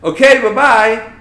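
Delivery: slow sing-song "Okay, bye-bye"; drawn-out dismissive farewell; chirpy flight attendant. Retold or imitated. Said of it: "I'm like".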